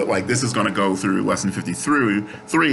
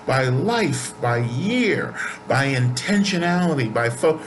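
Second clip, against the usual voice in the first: pitched well higher and slowed, fervent; impassioned pleading; 5 semitones higher than usual. Retold or imitated. Speaker to grieving friend about her mother, fervent high pleading.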